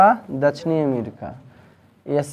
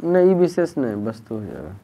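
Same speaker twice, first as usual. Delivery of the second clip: measured classroom dictation, phrase by phrase; 2 semitones higher than usual. Acted. Teacher dictating a definition for students to copy, measured dictation. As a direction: dictate in short chunks with long pauses.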